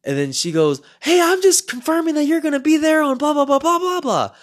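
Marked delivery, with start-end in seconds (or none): 1.0-4.3 much higher, louder fake-bright woman's voice rattling through; forced cheerful woman. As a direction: chirp it with a forced smile. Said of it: "she forced a smile".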